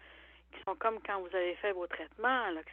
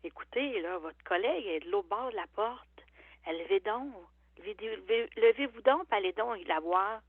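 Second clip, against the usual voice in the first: exasperated scolding; 3 dB louder than usual. Retold or imitated. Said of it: "je leur dis".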